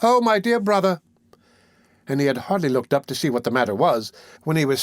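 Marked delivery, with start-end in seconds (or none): 0.0-1.0 high, raised cry of a woman in feigned distress; Nancy cries out to the stranger, a mock scream. A narrator's reading. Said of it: "a young woman screaming out very loud".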